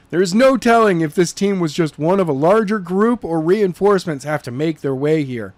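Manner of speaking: brisk orders to the family; Skylar giving orders. Acted. Skylar telling Jenna's family to pack fast, urgent.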